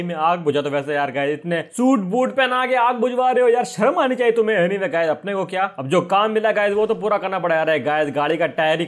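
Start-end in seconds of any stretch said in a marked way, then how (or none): 1.4-4.6 indignant scolding. Acted. Scolds boss over fire job.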